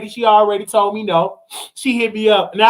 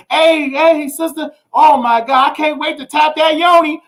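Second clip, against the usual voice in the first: mock fancy talk; 6 semitones higher than usual. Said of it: "We used to say all the big word".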